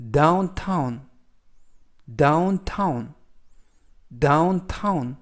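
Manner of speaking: downtown with both syllables clear, DOWN-TOWN; steady drill read of downtown; model pronunciation. Shown as a demonstration. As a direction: repeat downtown evenly for learners. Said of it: "이라고 발음하시면 되겠고요".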